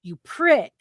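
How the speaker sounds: high, loud scolding rant; chewing him out. Retold or imitated. Employee berating the customer, high angry rant. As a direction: tear into him for his carelessness. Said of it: "start going in on this guy".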